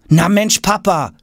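high-pitched, impatient exclamation; exasperated boy's call. A narrator's reading. Tom has had enough of father, calling out. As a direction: call out to dad, fed up. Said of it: "ruft er".

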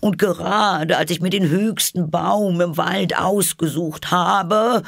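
high, agitated bird voice. A narrator's reading. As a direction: raise it to an aggrieved squawk. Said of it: "fuhr die Taube mit erhobener Stimme fort".

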